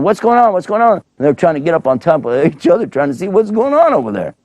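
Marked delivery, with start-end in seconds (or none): 0.0-0.9 much higher, craning and urgent; anxious people at the back. Pretend. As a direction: call out from the back trying to see. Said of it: "other people in the back going".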